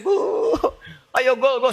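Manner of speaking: high, loud cheering for a goal; football cheer. Acted. Preacher mimics a fan in the stands cheering the goal. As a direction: egg the striker on like a fan.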